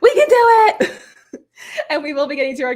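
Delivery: hoarse, strained voice; losing voice. Real, not acted. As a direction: push through a voice that's giving out. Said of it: "I am literally losing my voice here".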